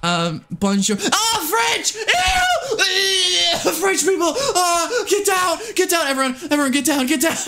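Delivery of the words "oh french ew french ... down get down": high shrieking mock alarm; playful hammed-up panic yelling. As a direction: shriek like the French are invading. Mock panic at French chat.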